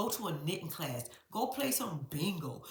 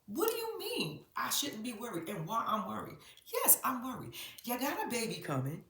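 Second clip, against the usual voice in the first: mock exasperated teen; 2 semitones higher, 4 dB louder than usual. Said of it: "she was like".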